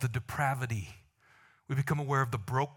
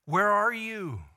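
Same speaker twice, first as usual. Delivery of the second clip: slow call from God; 3 semitones higher, 4 dB louder, slower than usual. Acted. God seeks Adam, calling out searchingly. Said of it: "He goes".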